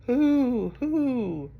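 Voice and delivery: high, long hoots; owl hoot. Acted. Reader reviewing the owl with children, high hooting. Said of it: "He can sound like an owl".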